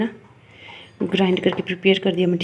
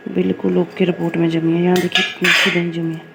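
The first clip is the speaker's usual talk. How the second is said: louder, pleased showing of the curd; proud showing; 7 dB louder than usual. Real, not acted. Proud cook showing viewers her set curd, louder. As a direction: show it off with pride.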